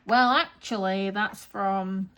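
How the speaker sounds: loud, drawn-out pedantic opening; annoying know-it-all. Acted. Correcting husband on where it's from, annoying know-it-all. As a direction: correct them like a smug pedant. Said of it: "that annoying bell end who's like".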